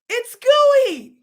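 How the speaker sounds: put-on high, loud child's call; eager small boy showing his find; excited little boy. Boy shows mother his find, high child voice.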